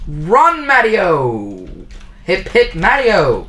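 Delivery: loud high cheer. Acted. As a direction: cheer him on. Cheering Mario.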